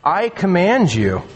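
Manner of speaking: deliberate command leaning on "I"; stress on I. Shown as a demonstration. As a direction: draw out "I" as an emphatic declaration. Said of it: "it's emphatic".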